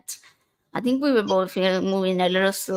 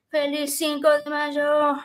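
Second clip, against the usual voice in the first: Spanish with a heavy American accent; Americanized Spanish; 7 semitones higher than usual. Shown as a demonstration. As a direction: say it like an American tourist. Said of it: "that was my very Americanized accent".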